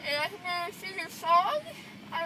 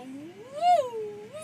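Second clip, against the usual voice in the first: woo sounds; 3 semitones higher, 5 dB louder than usual. Retold or imitated. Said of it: "and I go".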